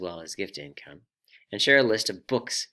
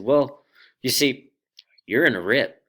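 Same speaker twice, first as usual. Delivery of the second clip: surfer voice; 4 semitones higher, 9 dB louder than usual. Acted. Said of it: "I'll try my best surfer voice".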